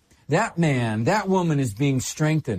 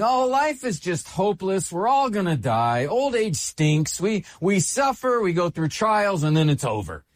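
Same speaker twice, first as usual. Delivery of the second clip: mock hopeless lament; 3 semitones higher than usual. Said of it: "here where he's saying".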